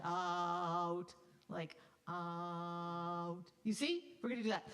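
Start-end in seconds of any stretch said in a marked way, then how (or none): 0.0-3.4 out with the glide at the very end; diphthong at the end. Shown as a demonstration. Conductor showing the late glide. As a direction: close to oo only at the end. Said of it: "just at the end".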